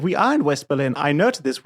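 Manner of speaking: ordinary delivery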